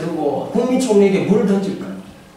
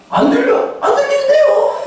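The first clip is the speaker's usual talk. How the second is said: mock feigned deafness. Powerful person brushing off the weak, mocking high voice.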